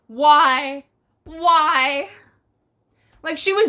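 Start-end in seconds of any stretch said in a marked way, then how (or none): 0.1-2.1 hammed-up complaint about the setlist; mock whine. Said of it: "it's like".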